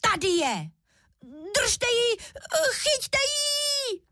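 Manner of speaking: put-on little cub shrieking to catch the girl; tiny bear screaming in alarm; squealing shout. A narrator's reading. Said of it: "začal svým tenkým hláskem křičet".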